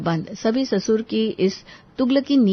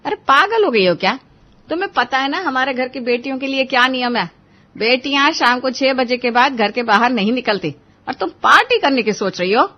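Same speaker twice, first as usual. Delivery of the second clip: sharp, raised scolding at the daughter; scolding mother; 4 semitones higher, 4 dB louder than usual. Acted. Mother scolds daughter over the party, raised and sharp. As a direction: snap at her like a strict mother.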